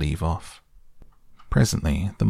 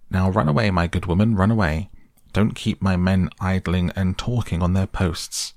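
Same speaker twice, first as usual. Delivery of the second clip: raised, brisk sergeant's dismissal; very short. Retold or imitated. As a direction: order her off like a sergeant. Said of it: "said to me very short".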